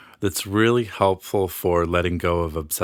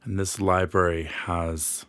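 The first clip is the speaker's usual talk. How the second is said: guided meditation; 3 dB quieter than usual. Acted. Healer leads listeners into an imagined library, guided meditation. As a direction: ease the listener into relaxation, phrase by phrase.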